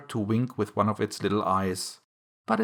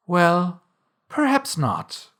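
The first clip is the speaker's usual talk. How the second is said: high, slow placating tone; soothing; 7 semitones higher, 3 dB louder, slower than usual. A narrator's reading. Alice placates the offended mouse, soothing. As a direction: soothe it, pitched up and drawn out. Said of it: "said Alice in a soothing tone".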